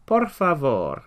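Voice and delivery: teacher spelling out the phrase in parts; phonetic model. Shown as a demonstration. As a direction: break the phrase up for learners to copy. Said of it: "try and follow the phonetics".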